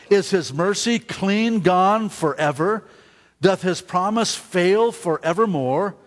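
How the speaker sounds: slow, deliberate run of solemn questions; scripture reading. Acted. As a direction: read each question out from the pulpit, unhurried. Reads the psalm's questions aloud.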